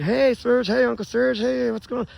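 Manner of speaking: high-pitched imitation of relatives saying hey; mock cheery greeting. Birthday greetings nobody gave the speaker, imitated high and mock-cheery.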